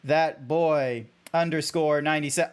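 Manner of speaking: stilted, measured thanks reply; deliberate, over-enunciated creature voice; robotic zebra. Acted. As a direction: answer formally in the zebra character. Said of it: "being the robotic zebra".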